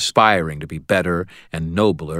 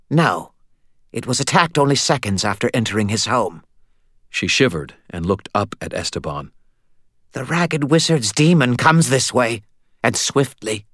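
put-on high, eerie vampire girl, wary; pitched up, strange and uneasy; high childlike vampire woman; 5 semitones higher than usual. A narrator's reading. Vampire warning her mate of the coming demon, high and uneasy.

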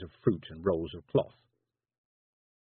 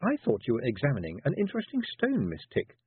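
accusing; 4 semitones higher than usual. Acted. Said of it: "said Tiffany accusingly".

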